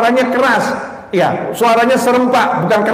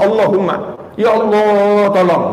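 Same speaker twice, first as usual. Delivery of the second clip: earnest begging. Shown as a demonstration. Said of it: "Minta beneran, ngemis sama Allah".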